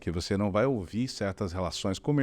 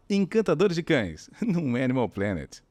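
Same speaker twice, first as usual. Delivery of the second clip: higher, slower caring voice; sweet high promo; 4 semitones higher, slower than usual. Shown as a demonstration. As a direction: say it like talking to a puppy. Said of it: "a gente fala com vozinha assim". (chamada com vozinha carinhosa)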